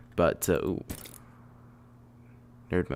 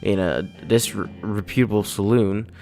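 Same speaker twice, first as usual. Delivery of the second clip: put-on light cowboy accent; Western accent. Slipping into an accent while reading the game, light cowboy accent. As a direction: read it in a folksy Western accent. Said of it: "slipping into an accent".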